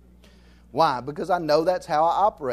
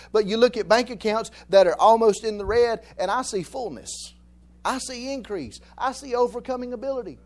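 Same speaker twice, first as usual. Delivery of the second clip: building then hushed preaching; 3 semitones higher than usual. Real, not acted. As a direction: preach the doubt, then whisper the faith. Preaching contrast, loud then soft.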